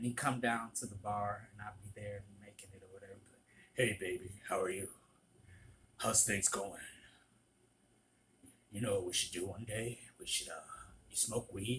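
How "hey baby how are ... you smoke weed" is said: put-on deep, guttural man's voice, much lower. Imitating a man who used to hit on them at the bar, deep guttural voice. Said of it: "he had a deep guttural voice".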